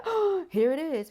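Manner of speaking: high surprised "oh" of discovery; delighted discovery. Retold or imitated. Reader retelling her own discovery last night, high and surprised. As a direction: gasp it out like you just found it. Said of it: "I said".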